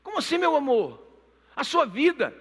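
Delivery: king can't believe what he hears; baffled king. Retold or imitated. King baffled, much higher.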